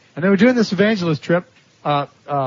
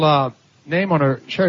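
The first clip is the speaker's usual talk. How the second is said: ordinary delivery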